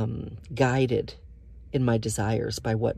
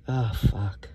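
aroused whisper; 3 semitones lower than usual. Real, not acted. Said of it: "Guys, I'm so worked up now".

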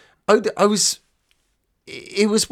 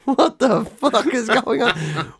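high, slow, drawn-out disbelief; mock bewilderment; 8 semitones higher, slower than usual. Reacting to Joey's antics, mock bewilderment. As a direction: stretch it out in helpless astonishment.

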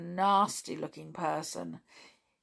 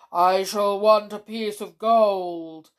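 grumpy gnome; 3 semitones higher, 9 dB louder than usual. Acted. Greedy gnome demands payment.

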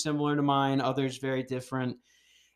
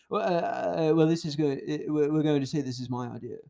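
a hint of Elon Musk, hesitant, then rushing; lightly voiced Musk inventing an excuse; understated Elon Musk imitation, quick finish; Elon Musk impression. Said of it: "that's a good Elon Musk impression".

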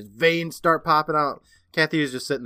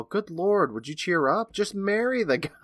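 higher, impatient nagging; acted exasperation; 8 semitones higher than usual. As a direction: imitate a fed-up friend urging her on. Acts Sally nagging her friend.

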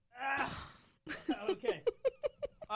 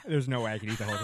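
laughing; 10 semitones lower, 5 dB louder, faster than usual. Real, not acted. Mouth burning from hot chip.

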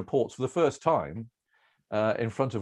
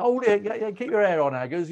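much higher, louder sarcastic jeer; mocking queue heckle; 10 semitones higher, 5 dB louder than usual. Shopper in the queue mocking Aggers, sarcastic and loud. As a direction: tease him for losing his temper. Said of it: "you go".

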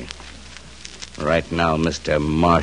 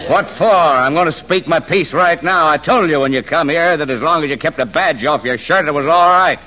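high, loud tirade; drunken angry shout; 10 semitones higher, 5 dB louder than usual. Acted. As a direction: yell your piece at him. Drunk George shouts at marshal.

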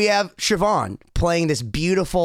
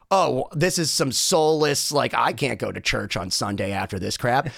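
dismissive disdain; 4 semitones lower than usual. Retold or imitated. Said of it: "he went from, like".

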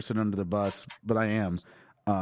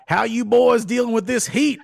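southern hick; 9 semitones higher, 6 dB louder than usual. Retold or imitated. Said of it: "this guy was like".

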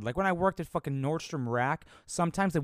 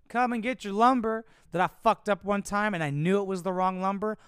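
higher, pitchman-style mock ad voice; mock commercial; 5 semitones higher than usual. Imagining himself in a Home Depot ad, mock pitchman. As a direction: sell it like a cheesy store ad.

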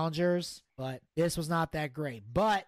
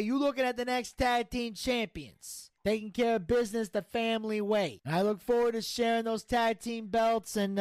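brash gangster bragging and griping; cocky mob boss; 3 semitones higher than usual. Acted. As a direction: play a swaggering mafia don. Plays mobster Tony D in skit.

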